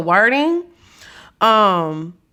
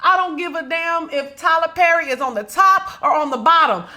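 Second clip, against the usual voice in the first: shout; 4 semitones higher than usual. Real, not acted. Shouting to viewers that she still needs the movies. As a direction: yell it out, no apologies. Shouting loyalty to Tyler Perry.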